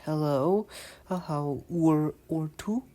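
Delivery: slow Northern Rupert's English, tu for you. Shown as a demonstration. The first way to greet someone in Northern Rupert's English, slow. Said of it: "The first option would be".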